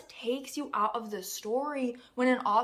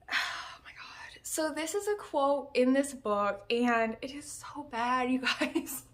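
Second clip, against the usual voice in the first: breathy whispered aside; 3 semitones higher than usual. Real, not acted. Vlogger whispering to her viewers about a bad quote. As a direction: whisper it to the viewers, half-laughing. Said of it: "whispered aside".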